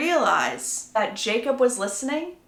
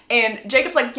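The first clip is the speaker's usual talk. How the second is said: ordinary delivery, nothing marked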